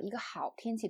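"好" stands out, "天气" follows lighter; stress on 好. Shown as a demonstration. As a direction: put the main stress on "好". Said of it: "重音在好上".

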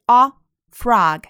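slow "frog" with a drawn-out open O; O sound shown. Shown as a demonstration. Teacher shows the O in frog, slowly drawn out. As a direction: draw out the O in "frog". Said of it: "O发的是O".

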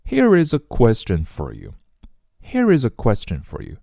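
"Here is a" run together through a curled r; linked r. Shown as a demonstration. Teacher reading the question for learners, smoothly linked r. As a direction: link "Here is a" as "hee-riz-uh". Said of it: "卷舌音儿去连读下面的is".

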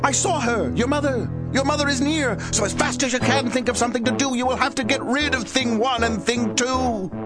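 high, panicky fish; frightened fish voice. A narrator's reading. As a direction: warn them, high and frantic. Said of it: "Then our fish said".

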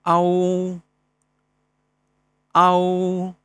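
凹 held as a sample vowel; sounding out words. Shown as a demonstration. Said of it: "韵母".

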